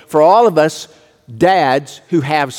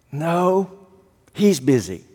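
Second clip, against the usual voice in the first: put-on much softer, small-boy voice; hushed little boy; 4 dB quieter, slower than usual. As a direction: answer like a shy four-year-old on the phone.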